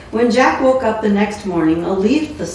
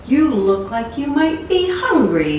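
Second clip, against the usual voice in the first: higher, genial welcome to a stranger; a big cook being hospitable; friendly as could be; 5 semitones higher than usual. Acted. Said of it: "friendly as could be".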